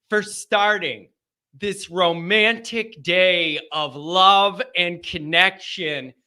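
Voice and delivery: slow, lightly hammed-up romance; creepy romantic. Host thanking listeners for a day of love, mock-romantic. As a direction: draw it out like a mock sweet-talker. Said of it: "That sounds kinda creepy".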